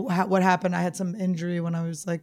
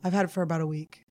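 muffled by a mouthguard; wearing a mouthguard. Real, not acted. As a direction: talk with a guard over teeth. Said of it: "why is this mouth guard in".

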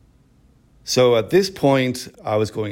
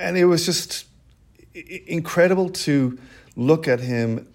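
halting, higher voice, still moved; real emotion, choked up; 3 semitones higher than usual. Real, not acted. Survivor resuming his story of seeing his rescuer, choked up. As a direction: stumble on through welling tears. Resumes after pausing to compose himself.

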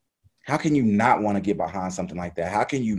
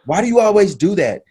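lightly voiced exasperated coach, pitched up high; imitated coach; 11 semitones higher, 5 dB louder than usual. Athlete retelling his coach's complaint, lightly imitated, high and loud. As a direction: imitate a coach's puzzled question, raised and louder. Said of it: "and he goes".

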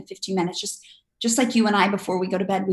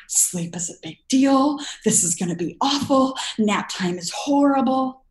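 anxious parent; 5 semitones higher than usual. Pretend. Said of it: "You are telling him".

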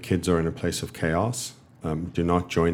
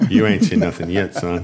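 mock tough parent; 5 dB louder than usual.

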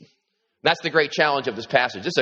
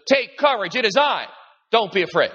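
Jesus reassuring; 6 semitones higher than usual. Acted. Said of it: "He says".

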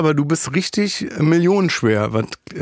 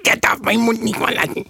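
higher, put-on voice of someone nervously hiding their dialect; mock Franconian suppressing dialect; 6 semitones higher than usual. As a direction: play an anxious Franconian biting back his accent. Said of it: "der sagt".

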